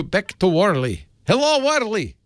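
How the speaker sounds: hammy, high mock Russian accent greeting Warley. Host hands the show back to Warley in mock Russian accent. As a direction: put on a jokey Russian accent to hand over. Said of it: "He's doing his Russian accent".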